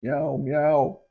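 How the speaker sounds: a light imitation of a blubbering meow; imitating blubbering. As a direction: echo it like a crying wife. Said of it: "in the blubbering said".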